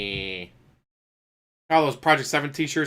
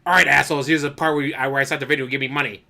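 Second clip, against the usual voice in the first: mock greedy streamer; 4 dB louder, faster than usual. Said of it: "I'd much rather have that than".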